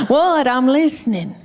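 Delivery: fed up but trying, like a mother at her limit; exasperated what. Retold or imitated. Mother snapping back at her nagging little girl, exasperated. Mom answering again, exasperated.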